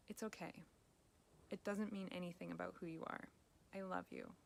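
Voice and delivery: soft, gentle reassurance to a friend who slipped up; tender self-talk. Acted. Coach models kind self-talk to a friend: softly tender. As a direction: comfort yourself like you would a dear friend. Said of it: "what would you say to a friend of yours".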